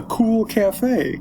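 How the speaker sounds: cackling shout of the name; laughing. Acted. Laughing waiter.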